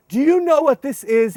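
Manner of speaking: high loud teasing ask; teasing question. Retold or imitated. Showing kids the M and M's, loud high teasing. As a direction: dangle the treat enticingly. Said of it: "I say to them".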